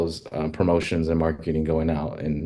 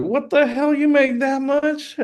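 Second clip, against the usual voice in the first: high, squeaky, stretched-out amazement; shocked disbelief; slower than usual. Retold or imitated. Retelling seeing a friend's paycheck, high stunned disbelief. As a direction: gasp it out in total disbelief at the number.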